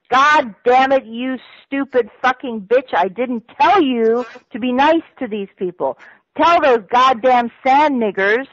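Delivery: imitating an angry CIA handler yelling; retold angry swearing. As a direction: let rip like the furious boss on the phone. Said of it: "now I'm gonna swear".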